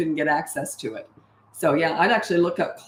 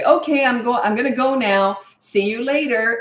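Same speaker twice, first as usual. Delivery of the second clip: higher and brighter, a breezy farewell; quick cheerful goodbye; 5 semitones higher, 3 dB louder than usual. Shown as a demonstration. Parent leaving the child at drop-off, breezy and cheerful. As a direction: leave lightly, no drama. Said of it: "You just say".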